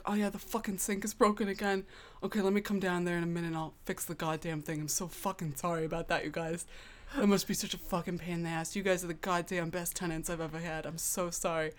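gruff Northeastern landlord, apologizing with lots of swearing; thick Northeastern accent. Retold or imitated. Landlord apologizing to tenants about the broken sink, thick Northeastern accent. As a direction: lay on a heavy Northeastern accent, cursing casually. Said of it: "thickest, like, Northeastern accent".

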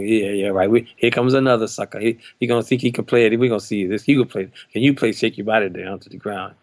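mock sceptical challenge in an everyday pitch; dismissive attitude. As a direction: imitate a bandmate doubting the newcomer. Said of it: "He said it with attitude".

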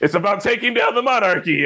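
high-pitched, earnest hot take; mock proclamation. Imitating a friend giving his take on Princess Diaries, mock proclamation. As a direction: announce it like a great discovery, hammed up.

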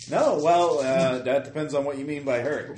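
lightly voiced mob threat; mob guy. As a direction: threaten them like a mobster.

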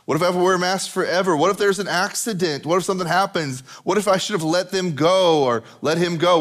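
mildly anxious spiral; mock freaking out. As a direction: pile worry upon worry. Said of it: "We were freaking out about all the what ifs".

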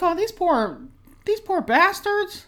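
high, slow pitying voice breaking into a laugh; mock sympathy, laughing. Retelling her reaction to exiled players, high laughing pity. I'm like.

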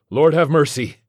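shouted liturgical plea; yelled response. A narrator's reading. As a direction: yell the response to the priest. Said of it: "Seth and I yelled".

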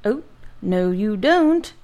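a threatening growl at the valet. Acted. Giant warning off the valet, growled. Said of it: "growled the giant".

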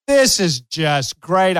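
sarcastic. Retold or imitated. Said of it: "I'm being sarcastic".

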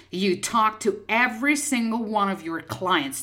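"every single one" stressed, falling at the end; emphasis on every single. Real, not acted. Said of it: "I put the emphasis on this".

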